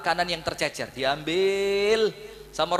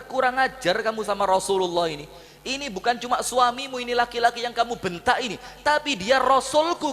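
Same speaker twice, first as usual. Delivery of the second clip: rising, slowing scolding toward the end; a father telling off his daughter; 4 semitones higher than usual. Acted. Abu Bakar scolds Aisyah. (menegur dengan marah)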